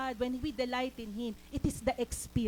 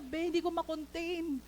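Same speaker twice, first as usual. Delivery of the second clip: higher voice imitating someone overcome; retold tearful confession, pitched up; 4 semitones higher than usual. Friend who cannot contain it, imitated tearful voice. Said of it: "Umiiyak siya".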